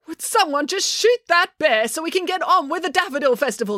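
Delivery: high-pitched, impatient demand; exasperated demand. A narrator's reading. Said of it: "demanded the mayor".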